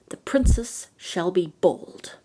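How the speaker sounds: slow, deliberate curse; old fairy cursing the baby, slow and menacing; wicked curse. Acted. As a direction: draw out each word like a spell.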